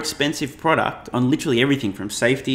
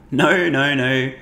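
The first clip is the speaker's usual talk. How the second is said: incredulous; 3 semitones higher, 4 dB louder, slower than usual. Real, not acted. Scoffs at GM's 2035 target.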